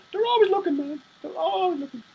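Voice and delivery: high and soft, a spooked murmur; whisper-y paranoia up high; hushed paranoid. Acted. Warning the viewers they are being watched, high and soft.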